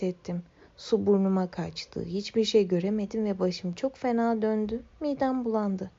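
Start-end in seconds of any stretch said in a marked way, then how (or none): none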